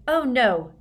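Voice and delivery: high, flustered cry. A narrator's reading. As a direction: blurt it out in a panic. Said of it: "rather wildly as he approached".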